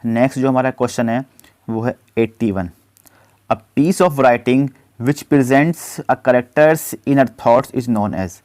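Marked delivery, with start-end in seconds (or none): 3.5-8.3 slow, deliberate dictation of the question; slow question read-out. Acted. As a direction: read it out word by word for students. Reads quiz question slowly. (धीमी आवाज़ में प्रश्न पढ़ना)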